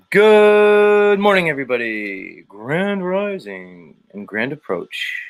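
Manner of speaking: grand, stretched-out host intro; show host opening. Acted. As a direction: greet the audience like a big show host. Official opening of his show.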